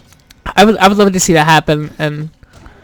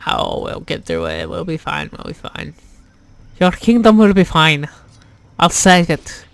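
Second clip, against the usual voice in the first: a half-hearted Irish lilt to a queen; bad Irish accent. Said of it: "I was talking in a horrible, shitty Irish accent".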